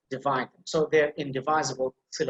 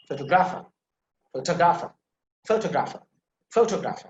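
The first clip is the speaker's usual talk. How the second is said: emphasise the second syllable of photographer, the "ta" sound; pho-TA-grapher, said as a drilled example; stress on TA; faster than usual. Shown as a demonstration. Teacher drilling the second example, stress on TA. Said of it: "You see, ta sound".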